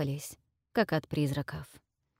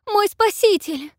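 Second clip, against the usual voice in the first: very high, slower, loud squeal of joy; chirping princess, even higher; 9 dB louder than usual. Acted. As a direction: stretch «Мой спаситель» into a shrill ecstatic chirp. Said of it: "радостно прощебетала княгиня".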